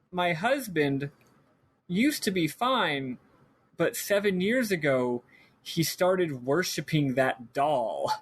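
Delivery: slow, spaced-out lament as the mom; retold worried mom. Mom explains her husband's doll worship, slow mock lament. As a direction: draw each phrase out with pauses, lightly acted.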